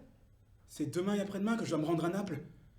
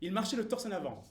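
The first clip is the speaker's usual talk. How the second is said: proud bearing; faster than usual. Acted. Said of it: "avec une prestance".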